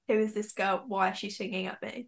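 puzzled aside, kept under the breath; confused bystander. Retold or imitated. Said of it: "that's like the confused face".

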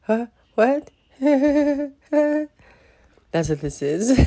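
laughing in disbelief; nervous laughter. Real, not acted. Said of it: "one of those laughs".

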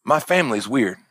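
low, matter-of-fact retold confession; deadpan. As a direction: imitate her sudden deadpan, no tears. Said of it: "deadpan face. She goes".

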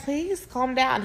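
softly, slowly calm someone down; retold quiet, unhurried reassurance; gentle soothing. Retelling her words to the nervous guy, gentle soothing.

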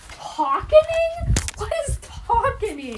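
drawn-out puzzled query, rising in pitch; mock bafflement. Vlogger tripping over the word talking, mock bafflement. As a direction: question your own word in exaggerated confusion.

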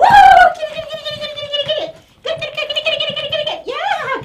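high, rapid get-it chant with laughs; frantic chase cheer. Real, not acted. Trainer urging the poodle to chase the toy, high and frantic. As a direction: fire the dog up to chase.

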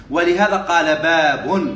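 slow teacherly delivery, باب held long; slow dictation. Shown as a demonstration. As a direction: draw out باب at the end, voice lifting. Dictates, then repeats for students.

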